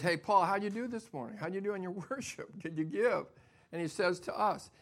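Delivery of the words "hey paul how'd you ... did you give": voicing God. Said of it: "And God says".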